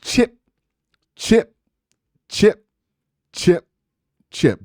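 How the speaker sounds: single words dropped one by one with long pauses; punched one-word beats; steady chipping. Shown as a demonstration. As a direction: chip away, one evenly spaced blow at a time. Acting out steady chopping persistence.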